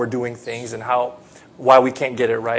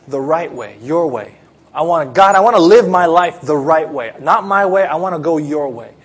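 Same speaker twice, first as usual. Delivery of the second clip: heartfelt prayer; 4 semitones higher, 6 dB louder than usual. Acted. Voiced prayer of a parent.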